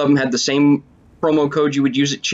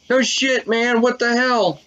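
high-pitched, startled outburst; what-the-hell shock, pitched way up; shocked disbelief; 9 semitones higher, slower than usual. Real, not acted. Shocked reaction to game.

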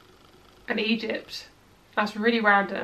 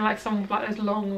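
ordinary delivery

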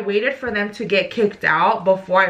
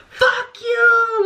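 yelled from far away; 13 semitones higher than usual. Retold or imitated. Shouting at her ex up in the VIP, heated. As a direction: yell it up at him, heated. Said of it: "like, from far away".

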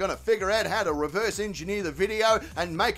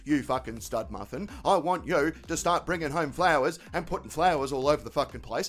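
lightly voiced mate, a bit lower; troubled mate Terry; 5 semitones lower than usual. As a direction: play the hapless mate retelling a tiff. Voices Terry retelling the argument.

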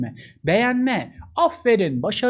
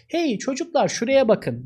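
calling out; 5 semitones higher than usual. Shown as a demonstration. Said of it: "dikkatini çekme var".

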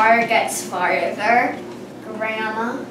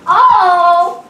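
excited gasp; 7 semitones higher, 10 dB louder than usual. Real, not acted. Race reaction.

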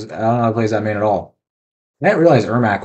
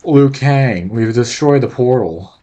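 Shang Tsung voice; slower than usual. Acted. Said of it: "that sounded even worse".

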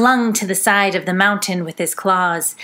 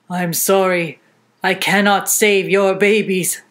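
out of breath lion; panting after the fall; 2 semitones lower than usual. Acted. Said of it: "Mountain Lion panted".

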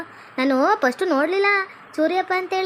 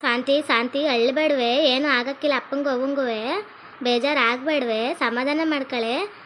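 slow, soothing reassurance; gentle consoling; 2 semitones lower, 3 dB quieter, slower than usual. Acted. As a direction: comfort a crying girl tenderly. Comforting a crying girl.

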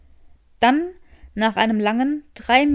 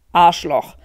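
lower, louder angry curse; 5 semitones lower, 6 dB louder than usual. Acted. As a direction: spit out the insult at the driver. Draco swears at provocative driver. (tiefer, lauter wütender Fluch)

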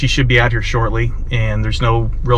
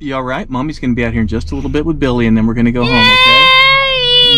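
gentle reassurance to a little one. Real, not acted. Father soothing baby.

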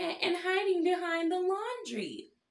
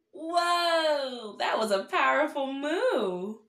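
excited praise; 6 dB louder, slower than usual. Acted. Praising children's moo.

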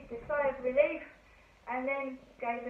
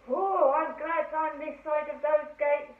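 louder, slower shaken exclamation; a touch of fright at the gates; mild scared driver; 6 semitones higher, 7 dB louder, slower than usual. Acted.

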